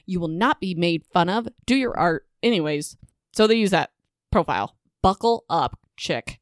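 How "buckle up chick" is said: mock dramatic buckle up; hammed-up warning voice. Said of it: "that was a horrible buckle up noise".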